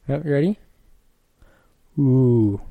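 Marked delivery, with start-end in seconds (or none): 2.0-2.6 moan sound. Shown as a demonstration. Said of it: "Follow me after the sound".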